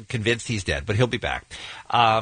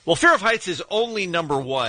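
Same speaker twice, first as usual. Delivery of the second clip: mock outrage; 4 semitones higher, 3 dB louder than usual. Real, not acted.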